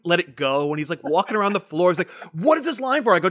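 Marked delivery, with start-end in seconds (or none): 2.3-3.1 high, insistent puzzled question; puzzled friend. Retold or imitated. Friend Ethan at the convention, high puzzled demand. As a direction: pester about the mystery line.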